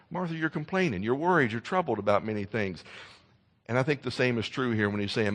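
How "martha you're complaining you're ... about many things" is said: disappointed. Retold or imitated. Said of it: "and also with a disappointment".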